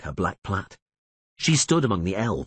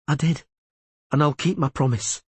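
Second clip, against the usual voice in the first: firm promise; 7 semitones higher than usual. A narrator's reading. Rayla reassuring Vilis.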